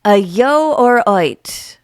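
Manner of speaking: lightly attempted Birmingham accent. Shown as a demonstration. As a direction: read out phonetic Brummie, vowel by vowel. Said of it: "I'm gonna go for Birmingham".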